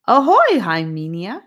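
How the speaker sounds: high, loud hail toward the tree; hollering theatrically to a friend in the tree. A narrator's reading. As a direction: call it out like a ship's greeting. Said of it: "he hollered toward the, towards the tree theatrically".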